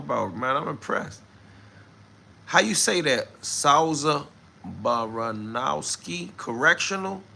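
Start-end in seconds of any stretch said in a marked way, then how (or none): 3.4-7.2 "Souza Baranowski Correctional" sounded out slowly, word by word; tentative slow try at "Souza Baranowski Correctional"; careful pronunciation. Real, not acted. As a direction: feel your way through "Baranowski Correctional" slowly and carefully, unsure. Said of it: "Did I say that right?".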